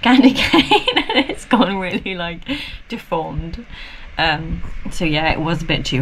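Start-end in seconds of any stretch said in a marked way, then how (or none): 0.0-3.7 laughing through the words, slowed down; real giggle breaking into the sentence; amused laughter. Real, not acted. Amused at the ruined candy cane.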